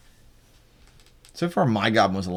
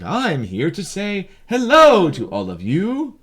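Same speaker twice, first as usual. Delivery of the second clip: high, louder, exaggerated sing-song; mock sing-song, pitched way up; 9 semitones higher, 4 dB louder than usual. Shown as a demonstration. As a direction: lilt each word like a cheerful nursery tune. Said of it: "I wish a sing-song voice would be like".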